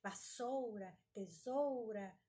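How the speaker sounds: "vassoura, tesoura" with a full "ou"; deliberate "ou" in "vassoura, tesoura"; overcareful pronunciation. Retold or imitated. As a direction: imitate someone carefully sounding the u in "vassoura, tesoura". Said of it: "fissurada em falar as palavras corretamente".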